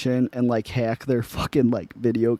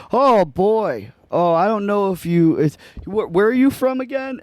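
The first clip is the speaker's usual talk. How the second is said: higher-pitched, halting small talk; acting distracted; 7 semitones higher than usual. Prank-call target pretending to drive in traffic, feigned distraction. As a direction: stall as if half busy driving. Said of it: "I'm just acting like I'm in traffic".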